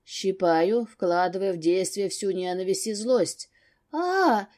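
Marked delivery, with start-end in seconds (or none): 3.9-4.5 sharp high cry of pain; short pained scream. A narrator's reading. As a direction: yelp out as if pinched hard. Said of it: "кричит на весь дом".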